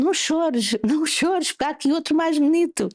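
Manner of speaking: put-on high-pitched, lilting "don't cry" to her child; retold playful consoling. Mother telling her crying daughter there's better news, retold playful consoling. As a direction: retell soothing someone in a high, cheery voice.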